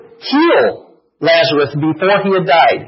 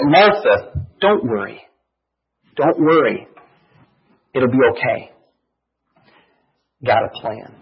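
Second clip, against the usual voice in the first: gentle reassurance; 5 semitones lower than usual. Retold or imitated. Jesus comforting Martha, voiced.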